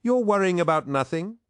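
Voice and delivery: very high-pitched, dismissive protest; chiding protest. A narrator's reading. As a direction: wave the worry away, voice way up. Torgadon chides worried Loken.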